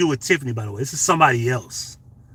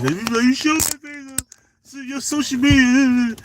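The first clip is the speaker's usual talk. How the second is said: mocking; 11 semitones higher, slower than usual. Mocking how women act.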